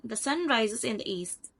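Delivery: a general statement, little rise or fall up to "east"; flat intonation. Shown as a demonstration. Teacher giving a general statement, flat intonation through "east". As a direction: keep the pitch level through to "east". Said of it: "It is a flat intonation".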